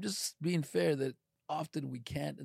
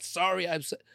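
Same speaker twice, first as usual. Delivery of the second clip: tossed-off, grudging sorry; dismissive fake apology; 3 semitones higher, 3 dB louder than usual. Shown as a demonstration. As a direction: brush it off like you don't mean it.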